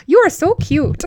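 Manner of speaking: put-on laughing through a light Minnesota accent; a giggly, light Minnesota "so cute"; an amused Minnesota accent. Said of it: "in the Minnesota accent all the time".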